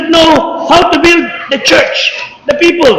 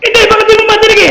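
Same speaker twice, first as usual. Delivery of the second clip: fast, higher retold yelling; mock shout; 5 semitones higher, much faster than usual. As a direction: rattle it off half-shouting at the seller. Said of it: "Kaya nga ako sumisigaw eh". (mabilis at pasigaw na panggagaya)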